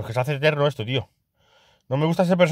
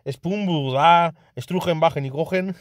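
mock German; slower than usual. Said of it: "activamos el modo alemán".

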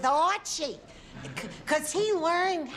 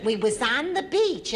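ordinary delivery

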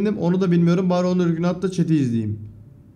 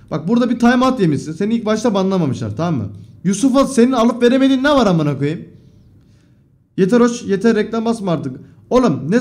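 louder, higher, telling the chatter off; heated scolding; 3 semitones higher, 4 dB louder than usual. Real, not acted. Streamer scolding a banned viewer, loud and heated.

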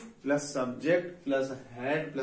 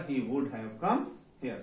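slow dictation; 3 semitones lower, much slower than usual. Shown as a demonstration. Teacher dictating the English sentence.

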